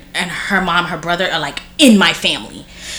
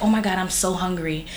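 whiny hungry; 10 dB quieter than usual. Retold or imitated. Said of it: "I could tell my mother".

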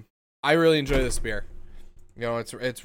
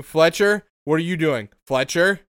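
raised voice calling the dog; 4 semitones higher, 5 dB louder than usual. Real, not acted. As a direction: call Fletcher across the room.

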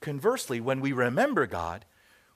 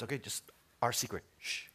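much softer, conspiratorial aside; hushed secrecy; 4 semitones lower, 9 dB quieter than usual. Acted. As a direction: play a dad hushing his son. Father secretly bribing his son.

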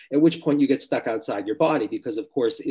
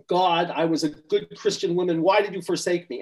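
mock anguished cry; 6 semitones higher than usual. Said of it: "she's screaming all this stuff".

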